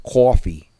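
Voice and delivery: coffee mimicked as the daughter says it; coffee with a rounded AW; daughter's pronunciation. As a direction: say coffee as KAW-fee. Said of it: "And my daughter says".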